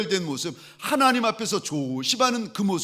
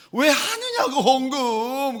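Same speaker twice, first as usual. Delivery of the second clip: exasperated outburst; 9 semitones higher, 6 dB louder, slower than usual. Retold or imitated. Pastor fumes over offering.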